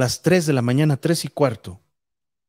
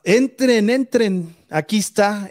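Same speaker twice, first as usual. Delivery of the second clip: shouting; 6 semitones higher, slower than usual. Retold or imitated. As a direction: yell at them to come in, scared. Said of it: "él les gritaba".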